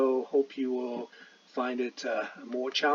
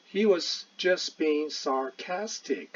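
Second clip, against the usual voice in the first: quoted remark; 4 semitones higher, 3 dB louder, slower than usual. Retold or imitated. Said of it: "他说，实际上他那个时候是".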